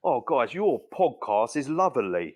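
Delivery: put-on overdone British accent as an American would try it; mock a bad American attempt at British, "lovely" as "luvverly"; hammed-up fake British accent with rolled R; American faking British. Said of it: "an American trying to do it".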